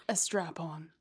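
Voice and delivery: breathy teasing whisper. Acted. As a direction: whisper the reveal like a naughty secret. Revealing the surprise.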